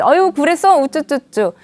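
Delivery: put-on indulgent baby-talk coddling; acted doting sympathy; embracing coo. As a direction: coo as if soothing a little one. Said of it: "포용이로 받아주게".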